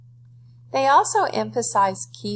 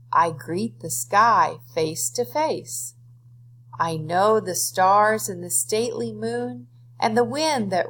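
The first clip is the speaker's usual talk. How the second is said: expressive poem reading. Shown as a demonstration. Teacher models fluent reading of a poem for students, expressive and measured. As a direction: read it like a poem for the class, with feeling.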